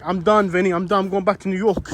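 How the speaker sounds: a light imitation of a New York accent, fed up; lightly voiced New Yorker, done with it all. Vlogger retelling the lady's complaint in a light New York accent. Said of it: "the most stereotypical New York accent".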